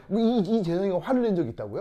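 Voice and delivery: loud, disbelieving question; double-check in open disbelief; incredulous. Real, not acted. Teacher questioning claim that gentle student got angry, incredulous.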